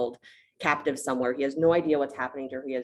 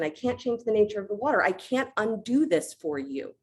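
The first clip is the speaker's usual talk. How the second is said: pitched way up, helpless refusal; sorry but firm, in a high voice; high, regretful ocean god; high apologetic god voice; 9 semitones higher than usual. Retold or imitated. Varuna refusing Ram.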